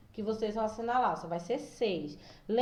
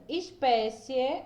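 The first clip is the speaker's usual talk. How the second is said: slow demo word; 3 semitones higher, much slower than usual. Shown as a demonstration. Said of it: "Por exemplo".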